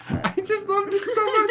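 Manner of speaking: high, delighted laughing voice; helpless with amusement. Real, not acted. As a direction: squeeze the words out through laughter. Laughing over the retold scene.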